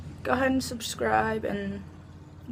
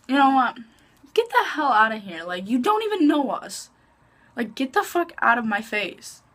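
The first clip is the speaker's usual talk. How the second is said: angry telling-off; 3 semitones higher than usual. Retold or imitated. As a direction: snap at the girl to get lost. Telling off the girl before the fight.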